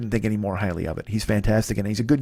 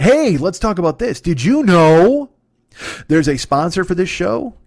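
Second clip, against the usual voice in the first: slow, drawn-out, louder showman tease; mock announcer; 5 semitones higher, 5 dB louder, slower than usual. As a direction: stretch it like a hammed-up ad host. Mock big ad segue.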